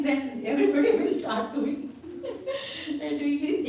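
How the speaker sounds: breaking into real laughter mid-sentence; amused, laughing as the words come out. Real, not acted. Amused by his own scenario.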